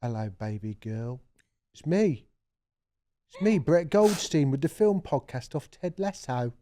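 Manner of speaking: lightly put-on actor impression, halting phrases; soft opening, then short separated phrases in mild impression; Brett Goldstein. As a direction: lightly imitate the actor, pausing between phrases. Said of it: "Brett Goldstein's".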